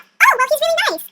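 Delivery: put-on high, girlish thought voice; lightly voiced pleased princess; pleasant musing. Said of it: "She thought".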